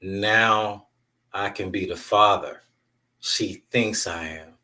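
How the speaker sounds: slow, deliberate retelling with weighty pauses; retold line, spaced out so it sinks in; emphatic repeat. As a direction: let each phrase land, dragging out the end. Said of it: "I'm gonna say this again".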